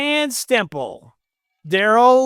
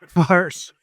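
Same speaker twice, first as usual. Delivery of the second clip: giggling through the word; laughing; 2 semitones lower than usual. Real, not acted. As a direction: laugh the nickname out. Laughing repeat of nickname.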